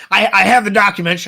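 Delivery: mock Alex Jones. Podcast host mocking Alex Jones, mock rant. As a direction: slam it like a conspiracy host. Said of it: "I need papers to shuffle".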